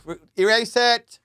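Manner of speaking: urgent, rising plea to cut it; panicked plea. Real, not acted. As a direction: blurt it out, suddenly worried. Panics about incriminating recording.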